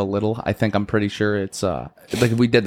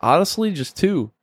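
put-on drunk driver; 7 semitones higher than usual. Drunk driver answering officer.

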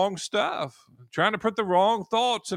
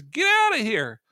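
upset rebuke; 6 semitones higher, 5 dB louder than usual. Retold or imitated. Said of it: "finally he gets upset".

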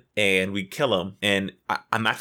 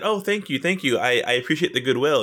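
gushing mock gratitude, pitched up at first; nicely sassy; 3 semitones higher, faster than usual. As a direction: retell thanks with exaggerated, insincere politeness. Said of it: "We were just nicely sassing the other person".

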